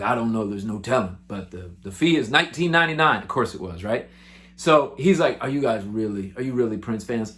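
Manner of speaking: a hint of a low, gruff bouncer; lightly voiced bouncer. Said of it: "And he's like".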